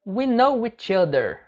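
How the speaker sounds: measured, connected teaching delivery; linked model phrase. Shown as a demonstration. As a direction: model the phrase for learners in one go. Teacher models phrase, then word by word. (frase-modelo ligada, para o aluno)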